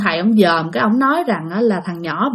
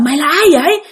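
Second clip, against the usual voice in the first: high-pitched, mildly raised demand; retold mother's cry; 8 semitones higher than usual. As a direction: imitate a frantic mother challenging a spirit. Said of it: "Lúc này mẹ của bạn mới la lên".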